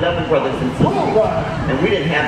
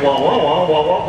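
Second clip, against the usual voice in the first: Charlie Brown wah. Shown as a demonstration. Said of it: "how did the bell sound".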